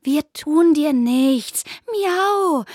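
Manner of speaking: calm the frightened rabbit slowly; reassuring. Acted. Zelda slowly soothes the scared rabbit. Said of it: "versuchte Zelda, das ängstliche Kaninchen zu beruhigen".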